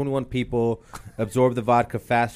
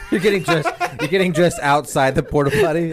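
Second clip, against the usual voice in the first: cracking up mid-sentence; amused, barely holding it together; laughing; 6 semitones higher, 4 dB louder than usual. Real, not acted. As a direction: talk through real laughter, louder and higher. Cracking up at porta potty bit.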